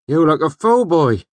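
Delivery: loud, high-pitched grumble; grousing. Acted. Injured man to smith's prentice, grousing. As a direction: scold the lad crossly. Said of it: "Carter groused as he made his way slowly".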